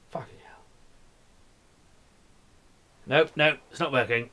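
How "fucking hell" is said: hushed curse under breath; frustrated whisper. Real, not acted. Music won't play, whispered curse. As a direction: curse quietly to yourself.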